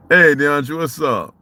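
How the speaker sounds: calling out. Real, not acted. Calls out to passerby.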